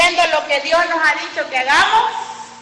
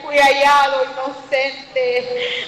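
bold reply; 3 semitones higher, slower than usual. Retold or imitated. Daniel answers the king.

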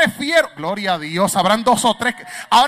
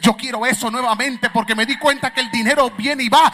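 eager believer. Retold or imitated. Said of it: "usted se levantaba con la euforia".

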